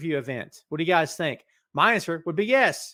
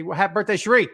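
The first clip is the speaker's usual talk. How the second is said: birthday cheer; 4 semitones higher, 6 dB louder, faster than usual. Pretend. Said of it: "Everybody say".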